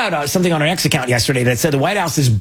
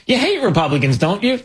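mock pollster, tag question pitched up; leading pollster; 5 semitones higher than usual. Pollster leading a respondent, mock coaxing question. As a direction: coax the answer out with a rising tag.

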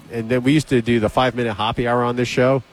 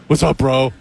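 Ryan Hoppy; 3 semitones higher than usual. Retold or imitated. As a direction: put on the lumbering newcomer's voice. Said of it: "It's exactly what he said".

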